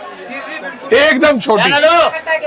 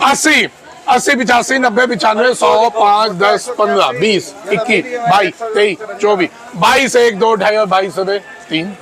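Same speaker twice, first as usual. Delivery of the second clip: auctioneer. Acted. Auctioneer calling bids.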